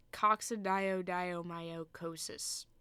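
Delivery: slow, even sounding-out of a hard term; careful attempt. Real, not acted. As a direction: take the long word slowly. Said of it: "I was close that time".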